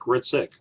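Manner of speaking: Ritzik said with no H at the start; silent H. Shown as a demonstration. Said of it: "it's pronounced like you don't say the H".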